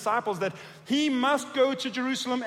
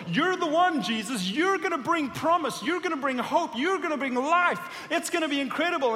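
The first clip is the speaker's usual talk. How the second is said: high, eager voice bursting with hope; excited Peter; 5 semitones higher than usual. Acted. Peter gushing to Jesus, high and excited. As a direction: gush to Jesus like an overjoyed follower.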